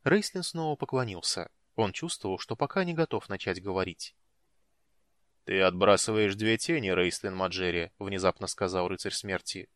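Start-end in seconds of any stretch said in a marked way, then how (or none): 5.4-7.9 deep booming voice. Acted. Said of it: "глубоким, гулким голосом".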